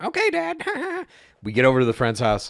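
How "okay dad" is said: put-on very high seventh-grader kid voice. Retelling answering his dad's orders, imitating his seventh-grade self. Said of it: "good impersonation of you as yourself in the seventh grade".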